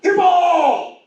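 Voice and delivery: high, drawn-out mock yell; mock top-of-the-lungs shriek of a small boy; imitated child's scream. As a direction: imitate a kid blurting it across a room. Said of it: "decides to scream at the top of his lungs".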